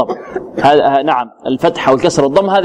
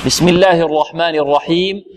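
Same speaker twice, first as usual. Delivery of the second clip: recitation. Shown as a demonstration. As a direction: recite the basmala with tajweed. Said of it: "هذه سورة الإخلاص". (تلاوة البسملة)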